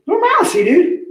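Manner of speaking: normalcy as nor-mal-uh-see in a high mock Italian lilt, laughing; playing up his Italian-ish normalcy for the stream; Italian-flavoured normalcy. Shown as a demonstration. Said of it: "it's making it Italian".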